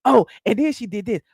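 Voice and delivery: mocking Portia. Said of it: "She's making up things as she go".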